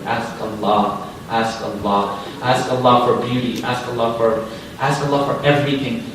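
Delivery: low, soft, measured appeal; gentle urging. Real, not acted. Preacher urging listeners to pray for everything, low and softly earnest. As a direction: urge them quietly, letting each repeat settle. Gentle repeated exhortation after story.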